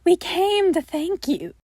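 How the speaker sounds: sinister creature grateful; eerie entity. Acted. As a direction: say it with unsettling sweetness. Helen entity voice.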